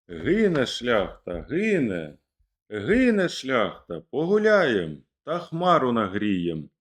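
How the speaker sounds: mock battle cry. Rebels cry out over the burning gentry, hammed-up battle call. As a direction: call out the rebels' triumph, lifted but held. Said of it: "Закричали гайдамаки".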